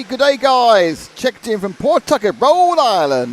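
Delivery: playful fake Southern US accent; southern drawl. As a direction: read the viewer's message in a hammed-up Southern US drawl. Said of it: "you put a southern drawl on Pawtucket".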